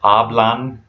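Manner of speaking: "Hablan" with the first A stressed; weight at the front of "Hablan"; stress on first syllable. Shown as a demonstration. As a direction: say "Hablan" as AH-blahn. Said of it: "the first syllable of a".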